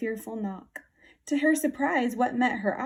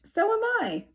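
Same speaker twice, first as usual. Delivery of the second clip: surprised; 10 semitones higher than usual. Acted. Mousie answers.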